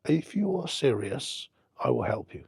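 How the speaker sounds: retold man-to-man pledge; solemn promise. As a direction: make a deliberate, earnest offer. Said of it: "he looked me in the eye and said".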